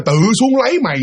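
imitated reply, slowed enough to follow. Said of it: "À, là nói như vậy đó".

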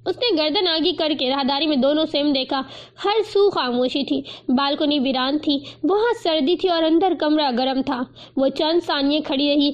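usual speaking voice

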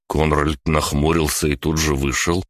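ordinary delivery

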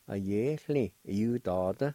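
"A ye, chli, e, u, da, da" run together as one word; connected teaching take of "A ye, chli, e, u, da, da"; joined-up pronunciation. Shown as a demonstration. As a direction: blend "A ye, chli, e, u, da, da" without gaps. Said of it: "And together".

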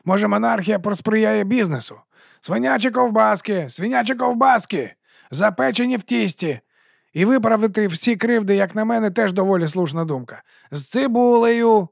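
chummy sausage seller greeting the watch; fast-talking street vendor. Acted. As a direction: sell it with a grin you can hear. Narrator voices Dibbler.

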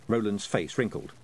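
plain reading voice

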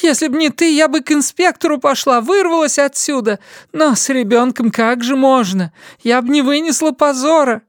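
high angry woman's rant; Linda ranting. A narrator's reading. Linda rages at her son about her shame. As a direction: pour out the bitter grievance. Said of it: "кричала она".

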